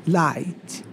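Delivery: "Light" said the English way, softly; English pronunciation demo. Shown as a demonstration. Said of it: "Isso aqui é mais ou menos o que se fala". (pronúncia inglesa de "Light", em voz baixa)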